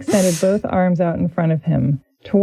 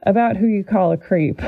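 Dean's voice. Acted. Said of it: "That's how Dean talks".

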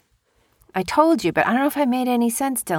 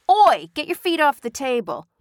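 playful scolding Oi, barely raised; mock shout; 5 semitones higher than usual. Shown as a demonstration. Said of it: "You shouted".

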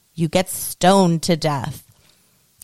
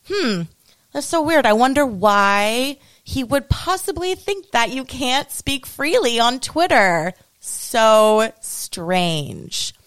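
sarcastic; 3 semitones higher, slower than usual. Acted. Host mocking Musk's critics, sarcastic. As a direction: fake puzzled musing, dripping sarcasm. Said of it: "I'm being sarcastic right now".

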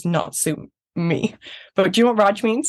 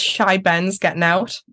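Geordie saying; slower than usual. Shown as a demonstration. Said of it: "one of my favourite ones is".

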